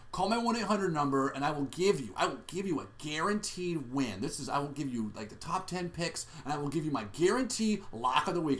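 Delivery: lightly voiced pushy sports-odds tipster; loud tipster. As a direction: imitate a radio guy hawking his picks. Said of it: "he's, like, this loud guy".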